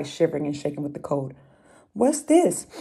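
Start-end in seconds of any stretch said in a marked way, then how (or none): 1.9-2.7 much higher, louder question; a sniffing little hedgehog; curious hedgehog voice. Acted. Hedgehog discovers the mitten, high and loud.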